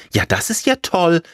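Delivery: high-pitched scarecrow character. A narrator's reading. Scarecrow questions the tailor, high put-on voice. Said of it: "sagte die Vogelscheuche".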